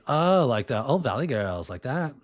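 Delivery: put-on a touch of Valley Girl lilt; Valley Girl accent. Shown as a demonstration. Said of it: "So yeah, the Valley".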